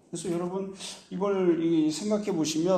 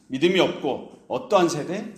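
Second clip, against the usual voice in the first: harsh rebuke. Retold or imitated. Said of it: "굉장히 험악하게 말씀하십니다".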